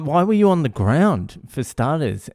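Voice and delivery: high-pitched accusing question; retold yelling. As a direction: imitate an exasperated dad grilling his son. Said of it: "and I'm yelling".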